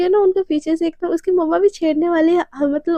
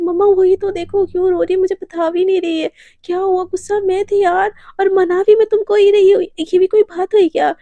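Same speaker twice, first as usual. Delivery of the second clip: higher, louder protest to mum; acted exasperated complaint; 4 semitones higher, 5 dB louder than usual. Radhika complains to her mother.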